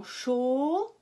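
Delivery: "cho-" with a long drawn-out O; held O. Shown as a demonstration. Teacher proving O in first syllable, vowel held. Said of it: "on entend bien O".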